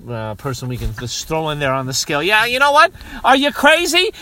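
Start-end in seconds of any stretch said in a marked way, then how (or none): 2.2-4.1 high, loud hammed-up ranting; mock fanatical pitch. Host mock-recruiting a crazy convert, high loud rant. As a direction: shout it like an overexcited recruiter.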